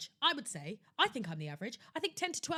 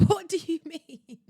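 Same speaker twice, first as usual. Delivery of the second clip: slow, laughing "What do you mean?", higher and louder; laughing outrage; 6 semitones higher, 4 dB louder than usual. Real, not acted. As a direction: burst out laughing in disbelief.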